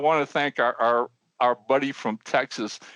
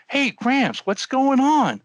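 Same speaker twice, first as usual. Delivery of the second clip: put-on high-pitched hail to an old man; raised, mock-concerned shout-over; calling out; 11 semitones higher, 3 dB louder, slower than usual. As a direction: call over to him, pitched well up.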